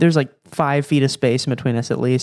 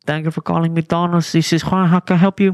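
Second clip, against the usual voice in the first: drive-thru worker voice; 3 semitones higher, 3 dB louder than usual. Retold or imitated. McDonald's worker answering the complaint call, polite greeting. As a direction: answer the phone like a cheerful McDonald's employee. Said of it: "Me calling McDonald's".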